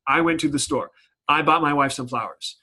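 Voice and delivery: two short clipped-off sentences with a full stop between; choppy. Shown as a demonstration. Teacher reading the run-on split by a period, choppy. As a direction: chop it into two separate statements. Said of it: "it's gonna sound very choppy".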